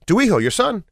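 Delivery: emphatic repeat. Retold or imitated. Paul repeating to confused father.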